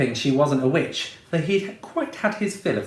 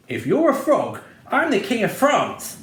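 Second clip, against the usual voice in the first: scoffing witch; 7 semitones higher than usual. A narrator's reading. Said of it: "said the witch".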